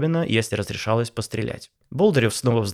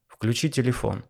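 lazy; 3 dB quieter than usual. Acted. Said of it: "лениво бросил Павел Павлович".

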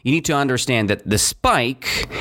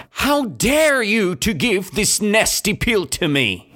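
higher, indignant beaver voice, mildly angry; furious snap; 8 semitones higher than usual. Acted. Rude beaver snapping at the goblin who offers a pill, mock furious. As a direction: snap back at the goblin, offended. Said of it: "He snapped at Zeke furiously".

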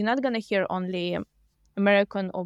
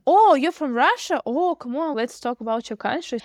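excited; 5 semitones higher than usual. Retold or imitated. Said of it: "It shouldn't be like".

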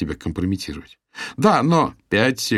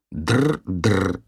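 mocking ring imitation. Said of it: "передразнивает Стив".

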